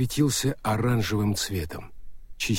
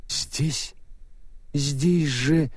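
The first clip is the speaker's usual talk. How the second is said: Death's voice; 4 semitones higher, much slower than usual. Acted. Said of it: "сказал смерть".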